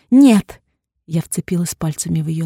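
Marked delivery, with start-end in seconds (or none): 0.1-0.6 sharp, high shouted no; loud refusal. A narrator's reading. Heroine shouting no at the doctor. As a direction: throw the no at him.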